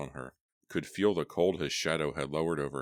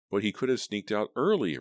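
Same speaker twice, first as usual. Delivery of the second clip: louder, higher protest; 5 semitones higher, 5 dB louder than usual. A narrator's reading. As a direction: push back hard. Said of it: "Roxy protested".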